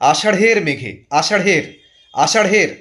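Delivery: আষাঢ়ের repeated firmly as "ashaṛh-er"; aspirated ঢ়. Shown as a demonstration. Teacher drills learners, আষাঢ়ের with a clear aspirated ṛh. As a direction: puff an H after the flap in আষাঢ়ের. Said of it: "দেখুন ভালো করে".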